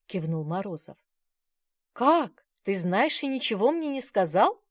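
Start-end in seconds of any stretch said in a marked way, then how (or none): 1.9-4.6 high, loud outraged disbelief; shocked exclaim. A narrator's reading. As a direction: cry out in betrayed surprise. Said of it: "воскликнула".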